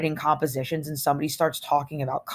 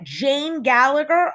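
surprised; 8 semitones higher, slower than usual. A narrator's reading. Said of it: "nearly dropped dead when he said that".

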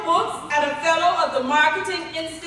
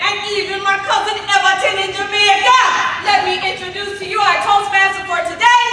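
bad Jamaican accent; 2 semitones higher, 6 dB louder, faster than usual. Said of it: "she put on that bad Jamaican accent".

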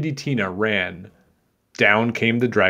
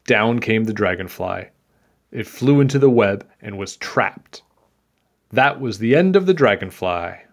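put-on measured read-aloud for children; story narration; 3 dB louder than usual. A narrator's reading. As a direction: tell it like a picture-book tale.

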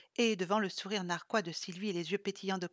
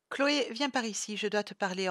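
ordering; 5 dB louder than usual. Acted. Sylvie calling Chloé into the hall, commanding. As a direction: summon her briskly. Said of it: "ordonna Sylvie".

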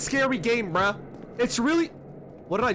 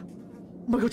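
whispering; 5 dB quieter, slower than usual. Real, not acted. Hiding from a monster.

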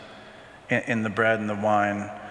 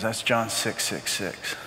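spooky; 3 dB quieter, slower than usual. Retold or imitated. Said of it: "ooh, spooky".

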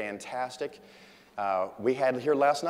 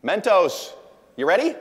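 much louder, higher hype call; 8 semitones higher, 10 dB louder than usual. Real, not acted. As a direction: fire up the crowd like a showman. Calling out to the audience.

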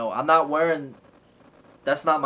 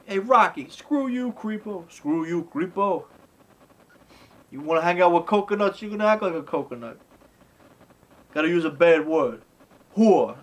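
higher mock bratty taunting; imitating bratty girl; 4 semitones higher than usual. Teen girl taunting Rocky, higher bratty voice. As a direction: sneer it like a rude teen. Little Marie insults Rocky.

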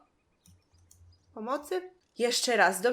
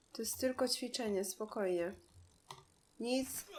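quiet self-soothing; 13 dB quieter than usual. Real, not acted. Calming herself in game.

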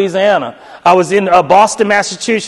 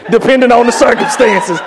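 twisted, higher retelling of a careful answer; misquoting; 3 semitones higher than usual. Retold or imitated. Student misquoting the professor to the faculty, insistent. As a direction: throw the professor's words back, pitched up. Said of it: "that's not how I said it".

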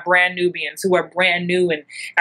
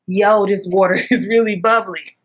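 Mister Blue voice. Retold or imitated.

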